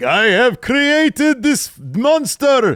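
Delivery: put-on high, loud, slow, drawn-out vampire accent. Joking about a movie scene, acting out its creator: Dracula accent. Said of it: "a Dracula accent".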